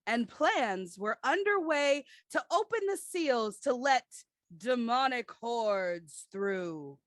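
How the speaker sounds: radio announcer voice. Acted. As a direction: read it like a radio trailer. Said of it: "we need your best radio announcer voice".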